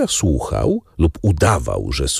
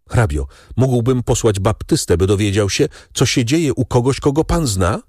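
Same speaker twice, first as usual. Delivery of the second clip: higher, rising, worried question; anxious young man; 7 semitones higher than usual. A narrator's reading. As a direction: ask the count nervously, climbing in pitch. Morel voiced, anxious. (zaniepokojony młodzieniec, coraz wyżej)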